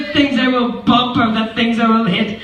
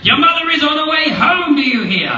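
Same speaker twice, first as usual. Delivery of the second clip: panicked fish; 6 semitones higher than usual. Acted. Fish warning the kids mother is near, panicked. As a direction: rush the alarm, voice up high. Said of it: "said the fish".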